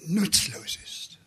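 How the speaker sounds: slow voiceless whisper. Acted. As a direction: let it sink in with a slow whisper. Preacher stresses uselessness without love.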